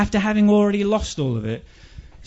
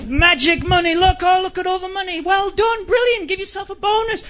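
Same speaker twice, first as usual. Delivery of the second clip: much higher, giddy voice drooling over the cash; gleeful greedy bankers; 11 semitones higher than usual. Acted. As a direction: squeal with delight at the money pile. Bankers gloating over the money.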